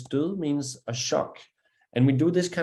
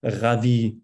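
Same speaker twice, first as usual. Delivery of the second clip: French R demo; 3 semitones lower, 4 dB louder than usual. Shown as a demonstration. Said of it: "Examples with French R's".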